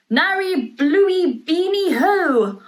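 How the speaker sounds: drawn-out spell sounds, half-remembered; strange magic words. A narrator's reading. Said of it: "saying strange things to himself".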